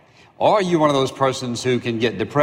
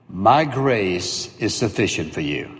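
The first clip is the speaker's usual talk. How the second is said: low, slow, measured divine reply; God's calm answer; 4 semitones lower, slower than usual. Acted. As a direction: deliver it as God, unhurried and final. God's answer voiced slowly.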